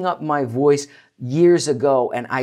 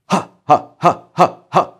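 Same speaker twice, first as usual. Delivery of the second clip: louder, punched ha breaths; breathy ha pulses; 4 semitones higher, 7 dB louder than usual. Shown as a demonstration. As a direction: pump each ha from the belly. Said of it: "do ha like that".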